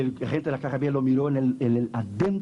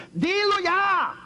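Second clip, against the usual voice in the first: voice of God commanding; 14 semitones higher, 3 dB louder, much slower than usual. Acted. God commanding sternly in story.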